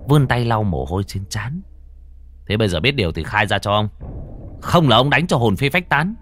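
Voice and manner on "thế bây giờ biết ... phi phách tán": threatening. Acted. Exorcist threatens the ghost.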